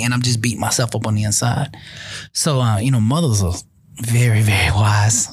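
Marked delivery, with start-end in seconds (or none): 4.0-5.3 slow, hushed whisper; a knowing, breathy aside. Real, not acted. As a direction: lean in and whisper it slowly. Aside praising wise mothers.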